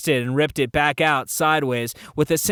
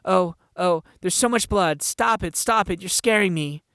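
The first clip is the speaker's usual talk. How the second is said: put-on frightened girl; 5 semitones higher than usual. Frightened girl sees blood.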